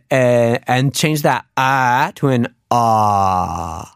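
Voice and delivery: slow, "ah" opened at the back. Shown as a demonstration. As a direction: open the back of the throat on "ah". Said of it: "open up the back".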